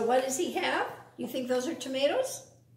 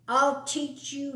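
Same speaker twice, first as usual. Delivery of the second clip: angry howl; 4 semitones higher, 3 dB louder than usual. Acted. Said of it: "he howled".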